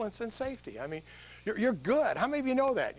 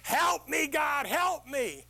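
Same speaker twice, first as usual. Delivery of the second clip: desperate plea; 10 semitones higher, much slower than usual. Acted. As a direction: beg God at the top of your lungs. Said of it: "And he says".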